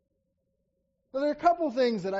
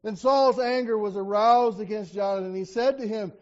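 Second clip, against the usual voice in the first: scripture reading. Acted. Preacher reading Saul's curse to Jonathan, forceful. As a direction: read Saul's curse with weight.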